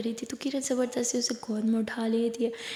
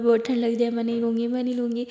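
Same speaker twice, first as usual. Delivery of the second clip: hammed-up whining, louder on the first words; dramatic complaining; 4 dB louder, faster than usual. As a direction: overplay the sick act. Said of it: "वो ड्रामे पे लग जाती है". (नाटकीय शिकायत, शुरुआत में ऊँची आवाज़)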